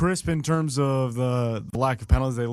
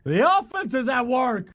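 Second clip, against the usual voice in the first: mock shushing; 9 semitones higher than usual. Teasing co-host to hush.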